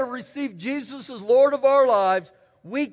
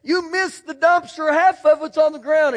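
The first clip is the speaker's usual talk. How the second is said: scolding dad; 4 semitones higher than usual. Retold or imitated. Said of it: "he'd say".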